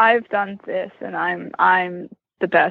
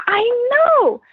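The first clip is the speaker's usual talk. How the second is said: high excited; 14 semitones higher, 4 dB louder than usual. Retold or imitated. Voicing Stefan's enthusiasm.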